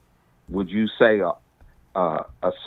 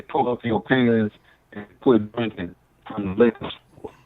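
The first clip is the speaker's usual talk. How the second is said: on speakerphone; sounding through a speakerphone; phone speaker. Real, not acted. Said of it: "You on speakerphone again".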